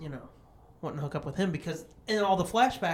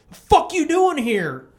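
loud, raised mock-bully voice; bullies' challenge; 4 semitones higher, 6 dB louder than usual. Bullies confronting two men at the carnival, aggressive. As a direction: imitate a thug starting trouble.

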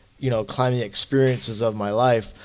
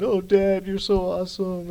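higher, lightly voiced daughter cheering him on; imitating daughter; 8 semitones higher than usual. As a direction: echo his daughter's proud praise, a bit higher. Daughter quoted on the phone.

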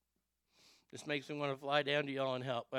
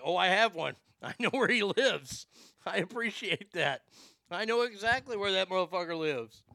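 menacing; 4 semitones higher, 5 dB louder than usual. Real, not acted. Threatening the man who threatened.

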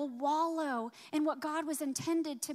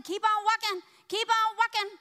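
urging on; 7 semitones higher, 7 dB louder than usual. Retold or imitated. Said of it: "when God said".

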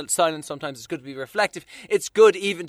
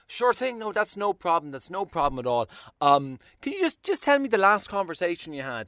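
polite; 5 dB quieter than usual. Retold or imitated. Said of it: "very politely say".

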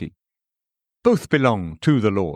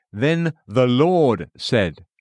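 slow, "Lord" held long; stress on LORD; much slower than usual. A narrator's reading. Narrator reading scripture aloud, stress on "Lord". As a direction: set "Lord" apart with a long, weighty stress. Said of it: "emphasis added".

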